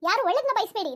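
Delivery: indignant retort. Acted. Wife answers husband who told her to check her BP, indignant.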